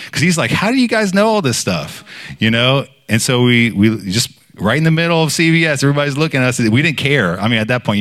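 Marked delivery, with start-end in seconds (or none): 0.5-2.0 high-pitched astonished question, imitated; retold stranger's amazement; amazed. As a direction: ask in sheer disbelief. Stranger amazed by what they know.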